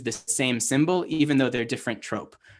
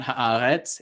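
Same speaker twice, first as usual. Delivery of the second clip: ha'aretz with the stress moved off the middle AA; ha'aretz said quicker, accent misplaced on the last syllable RETZ; ha'aretz with the wrong syllable, RETZ, leaned on. Shown as a demonstration. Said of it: "telling you which syllable you accent".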